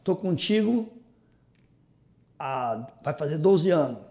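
slow, sincere declaration to wife; love declaration. Real, not acted. Declaring love to his wife Vanilda on camera, slowly and sincerely. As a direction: speak slowly from the heart. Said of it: "declaração de amor pra Vanilda".

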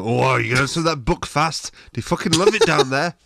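loud, high, hammed-up English accent; badly faked English accent. Mocking English people asking about a weekend in Scotland, hammed-up English accent. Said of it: "I don't know what accent that was".

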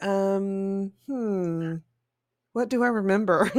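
hesitant, searching memory; mock forgetful, pausing to think; thinking hmm. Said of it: "I'll be like".

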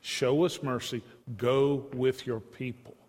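slow, measured plea; understated, earnest begging. Acted. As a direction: beg gently, drawing out each appeal. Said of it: "he's begging God".

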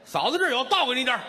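high, loud cheerful woman's voice; wife's eager offer. Retold or imitated. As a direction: offer it brightly, pitched high. Wife offering her urine. (嫂子高声热情地说)

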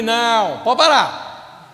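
firm cut-off. Retold or imitated. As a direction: stop the complainer in their tracks. Pastor cuts off her complaint.

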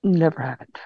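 conspiratorial whisper. Real, not acted. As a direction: whisper it like a secret. Denying the sequels exist.

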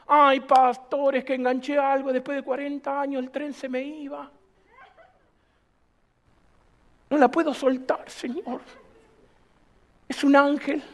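quejido lento y más grave de feligrés; queja imitada. Retold or imitated. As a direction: imita al hermano que ruega con un "ay". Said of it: "feligrés imitado se queja". (feligrés lloriquea al pastor, lento y grave)

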